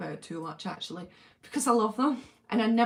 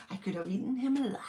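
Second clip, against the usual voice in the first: laughing quote; 4 dB quieter, faster than usual. Real, not acted. Quoting the film line laughing.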